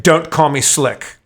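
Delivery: slow, deliberate put-down; slow warning. Retold or imitated. Quoting Michelle Pfeiffer's comeback, slow and deliberate. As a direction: lean on each word, unimpressed. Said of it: "she's like".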